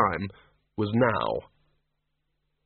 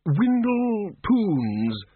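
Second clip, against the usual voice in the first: high, raised call through a door; calling through keyhole; 9 semitones higher, much slower than usual. Acted. Windle calls to the librarian through a keyhole, raised. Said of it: "trying to shout through the keyhole".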